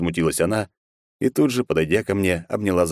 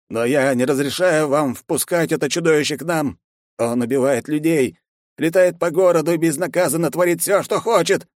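raised, agitated objection; guard warning his mistress; protesting old man; 10 semitones higher, 3 dB louder than usual. A narrator's reading. (взволнованно, возражая)

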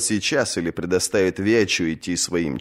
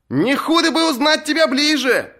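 much higher jeering call; heckler's shout. Acted. A captain heckles Asha, shouted jeer. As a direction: heckle her from the crowd. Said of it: "крикнул кто-то".

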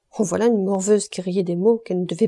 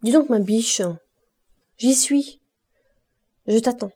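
put-on drunk man calls out, pitched up; calling out; 3 semitones higher than usual. A narrator's reading. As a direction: call across the shop, leering. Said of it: "Il cria à Clémence".

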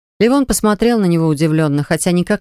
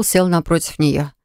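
ordinary delivery

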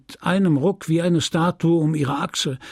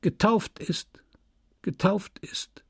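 whispered echo; fading echo; 8 semitones higher, 4 dB quieter, slower than usual. A narrator's reading. Children's answer echoing behind Emma, whispered fading echo. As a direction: repeat it as a dying echo, slow and hushed. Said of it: "hallten in ihrem Rücken".

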